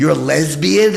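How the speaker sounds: acted, far too loud, high startled blurt. Retelling blurting out a surprised question in a restaurant: retelling a loud exclamation. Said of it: "I said so loud".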